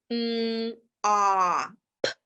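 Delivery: sounding out m, a, p; segmented sounds. Shown as a demonstration. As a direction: break mop into sounds. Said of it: "Miss Marcano hears".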